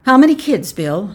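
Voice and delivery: loud, formal question. A narrator's reading. Official questions the husband, formal. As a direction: put it officially, starting high. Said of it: "Mister Summers asked formally".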